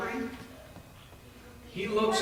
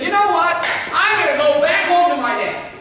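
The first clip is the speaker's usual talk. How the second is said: eager resolve; 8 semitones higher, 7 dB louder than usual. Acted. Son's sudden resolve, retold.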